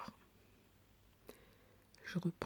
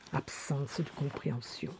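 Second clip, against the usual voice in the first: list-like verse with long pauses, building louder; poem recitation; 5 dB louder than usual. Acted. Woman reads poem on need for a friendly ear, building recitation.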